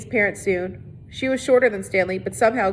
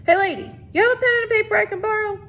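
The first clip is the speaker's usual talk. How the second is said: eager ask; 12 semitones higher, faster than usual. A narrator's reading. Squid asks brashly.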